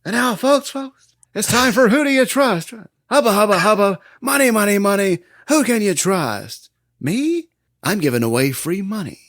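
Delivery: high, loud, hammed-up Joker showman; Joker impression. Host to the crowd, a loud high Joker showman. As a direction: belt it out like a cackling game-show host villain. Podcaster voicing the Joker's parade speech.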